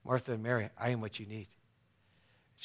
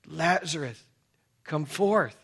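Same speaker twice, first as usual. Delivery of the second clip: raised, higher-pitched summons; crying out; 4 semitones higher, slower than usual. Retold or imitated. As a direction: call him forth in a moderately raised voice. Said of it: "he cried with a loud voice".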